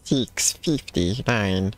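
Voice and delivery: slow, strange alien drawl. Pretend. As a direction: stretch it out like an alien. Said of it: "That's, that's what your character sounds like".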